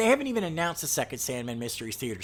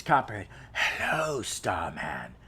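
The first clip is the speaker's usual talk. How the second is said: bomber's mock scream; 4 semitones lower, slower than usual. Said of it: "then he screams".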